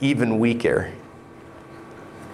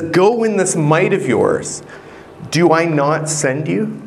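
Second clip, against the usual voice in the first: voice of God; 3 semitones higher, 3 dB louder than usual. Acted. Preacher voices God's command.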